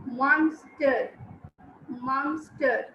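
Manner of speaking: "monster" drawn out in two beats, MON-STER; syllable demonstration. Shown as a demonstration. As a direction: sound out "monster" for a class, both syllables distinct. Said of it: "Please focus on the sound".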